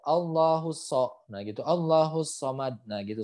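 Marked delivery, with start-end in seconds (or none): 0.0-1.1 "Allahu so" with a light S; thin S. Shown as a demonstration. Teacher shows the misreading, thin "so". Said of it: "Kalau misalkan nggak naik". 1.6-2.8 "somad" with a light S like sin; thin S. Shown as a demonstration. Teacher shows the misreading, thin "somad". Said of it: "Kalau misalkan nggak naik".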